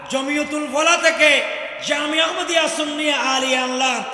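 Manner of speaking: forceful, projected sermon phrases; impassioned preaching. Real, not acted. Preacher recalling a revered scholar's funeral, impassioned. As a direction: proclaim it phrase by phrase to a big crowd.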